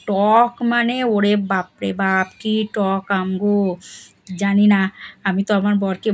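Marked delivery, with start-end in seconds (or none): 0.1-3.8 eating sour mango. Real, not acted.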